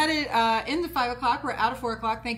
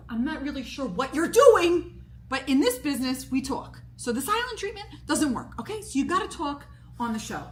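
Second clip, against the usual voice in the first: imitating a boss laying down the law, higher; retold firm lecture; 4 semitones higher, 4 dB louder than usual. Retelling host's scolding phone call.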